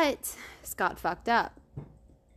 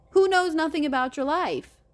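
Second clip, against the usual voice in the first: raised, louder telling-off; exasperated rebuke, higher and louder; indignant scolding; 8 semitones higher, 5 dB louder than usual. Pretend. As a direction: scold him in his absence, pitch jumping up. Scolding Scott as if addressing him.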